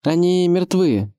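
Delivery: high, slow announcement; Адам. A narrator's reading. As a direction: call the answer up deliberately. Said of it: "ответил ему Адам".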